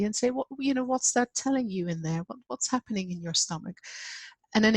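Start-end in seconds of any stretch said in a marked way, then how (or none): 0.3-3.8 gentle questioning. Acted. Helper asking a grieving person what their stomach tells them, gently. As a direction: ask it carefully, without pressing. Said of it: "but very gently".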